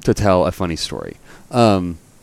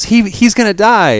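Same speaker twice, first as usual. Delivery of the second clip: much higher, louder mock panic; panicked woman; 13 semitones higher, 5 dB louder than usual. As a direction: stammer it in imitated desperation. Acted panicking woman in meme.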